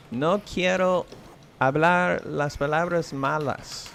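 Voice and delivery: Spanish with a thick gringo accent; American accent Spanish. Real, not acted. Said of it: "I know I sound like a gringo".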